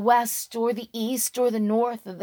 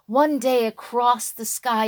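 ordinary delivery, nothing marked

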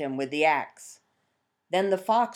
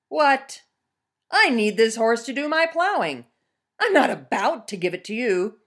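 higher, indignant peasant refusing; alarmed peasant; 6 semitones higher, 3 dB louder than usual. Acted. Peasant refusing to hand his horse to the bear, indignant. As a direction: protest in disbelief.

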